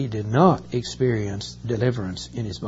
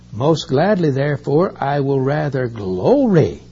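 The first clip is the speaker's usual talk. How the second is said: louder, joyful, rising to "glory"; glad change of heart; 6 dB louder than usual. Acted. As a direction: proclaim it with new gladness. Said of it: "notice how his tune changed".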